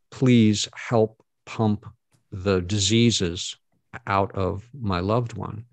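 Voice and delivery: slow, drawn-out retold plea; imploring. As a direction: beg slowly, word by word. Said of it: "I implored them".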